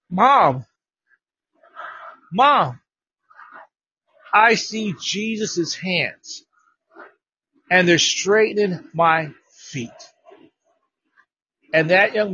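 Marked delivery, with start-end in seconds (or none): 0.1-9.9 put-on a boy seeing Jesus heal him; awed, tearful boy. A boy on the phone telling his mom, in slow tearful awe.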